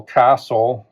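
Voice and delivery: CAS-tle, first syllable stressed; "castle" with the weight up front. Shown as a demonstration. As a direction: lean on the first beat of "castle". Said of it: "stress here is on that first syllable".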